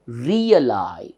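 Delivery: "Realize" with moderate weight on the drawn-out ending; measured teacher's demo of "Realize". Shown as a demonstration. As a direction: stretch the last syllable of "Realize". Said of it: "little loudly".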